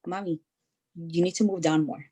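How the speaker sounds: a hint of a bossy kid coaching mom; imitating daughter. Mother voicing her daughter correcting her workout, mock bossy.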